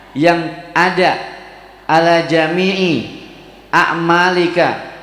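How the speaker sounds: slow, measured recitation with long pauses. Acted. Teacher reciting Arabic to parents, slow measured recitation. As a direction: recite each phrase slowly, then translate it.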